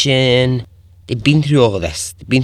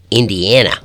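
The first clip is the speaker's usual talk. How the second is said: "Indiana" in a mock American accent, the middle a said as in "cat"; a quick, deliberately bad American accent on "Indiana"; hammed-up American accent for the place name "Indiana"; terrible American accent; 4 dB louder than usual. Shown as a demonstration. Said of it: "that was a terrible American accent".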